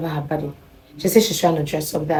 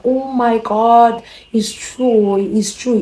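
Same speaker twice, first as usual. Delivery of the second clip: higher and louder, slowly drawn out; a stretched, loud oh my God; shocked realisation; 6 semitones higher, 6 dB louder, much slower than usual. Retold or imitated. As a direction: gasp it out as the truth hits you. Realising the phone was ringing.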